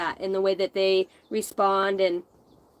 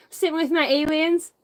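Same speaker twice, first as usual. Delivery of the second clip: laughing; 7 semitones higher, 3 dB louder than usual. Real, not acted. Laughing at her old self.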